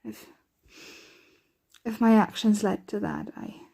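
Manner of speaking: hesitant, halting worry with long pauses; worried. Acted. Vampire fearing a loved one will be hurt, worried. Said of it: "can't help but worry myself".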